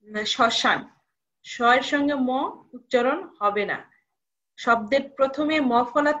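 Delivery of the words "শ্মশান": শ্মশান said "shoshan", the ম silent; correct pronunciation. Shown as a demonstration. Teacher modelling শ্মশান without the ম. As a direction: drop the ম in শ্মশান.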